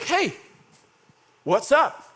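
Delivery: high-pitched challenging hail; calling out. Acted. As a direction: call over to them, pitched well up. Calling out to the lepers.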